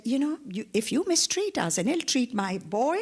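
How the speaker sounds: father defending his son, threatening; angry warning. Acted. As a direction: warn him off angrily. Vayu threatening Indra.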